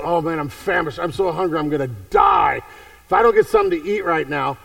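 hammed-up starving hunter; famished plea. Famished Esau begs for food.

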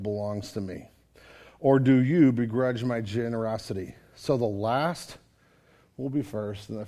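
low, soft solemn scripture reading. Acted. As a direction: read the verses low and grave. Reads scripture aloud.

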